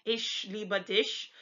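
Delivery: Frankish German, ch turned to "sh"; slow Frankish ish in Ich and dich; Frankish dialect. Shown as a demonstration. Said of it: "the Frankish dialect, they do say".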